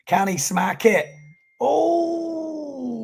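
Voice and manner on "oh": surprised cry. Real, not acted. Wipeout on a wave attempt.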